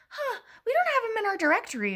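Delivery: high, airy voice of an offhand nurse; nurse's voice. Retold or imitated. The triage nurse on the phone, lightly voiced. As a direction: toss it off like a clueless nurse.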